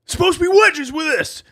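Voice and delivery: furious high shout at the counter clerk; angry screaming. Retold or imitated. Angry customer screaming at the clerk about missing wedges. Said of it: "starts screaming at the guy".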